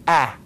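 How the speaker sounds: "ah" as the open, full A sound; isolated vowel, "ah". Shown as a demonstration. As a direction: sound out the full "ah" of an unreduced can. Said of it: "you're not gonna hear the".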